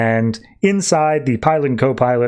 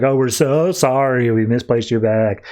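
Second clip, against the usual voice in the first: sarcastic apology. Retold or imitated. Airline clerk apologizing to Harley over a lost bag, sarcastic. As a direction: give an eye-rolling, insincere apology. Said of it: "rolls her eyes".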